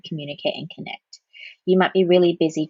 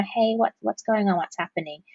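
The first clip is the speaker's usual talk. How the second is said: genuine, warm tone; 2 semitones higher than usual. Shown as a demonstration. Parent opening up to a teenager, sincere and calm. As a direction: ask like you truly want to know. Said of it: "start off with that tone of voice first because it's a genuine tone of voice".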